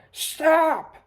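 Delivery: sharp high yelled stop; shouted stop. Retold or imitated. Clerk yelling at a customer who keeps walking, high shout. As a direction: bark it like a clerk halting you. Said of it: "starts shouting at me".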